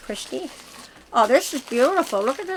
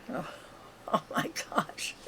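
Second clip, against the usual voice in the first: laughing; 15 dB quieter than usual. Real, not acted. Laughing after bug scare.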